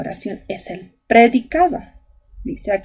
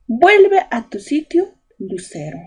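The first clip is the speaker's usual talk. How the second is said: parent's order; 5 semitones higher than usual. Acted. Teacher voicing a parent's order.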